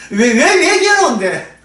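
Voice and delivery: a lightly voiced divine questioner; slow questioning reply. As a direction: press the question gently but insistently. God's voice answering in dialogue.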